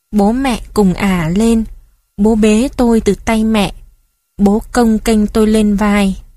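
plain reading voice

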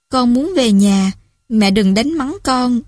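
slow, lightly slurred pleading daughter; mild drunken mumble, slow. Acted. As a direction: drag the words like a tipsy girl. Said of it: "Cái giọng lè nhè kia tiếp tục".

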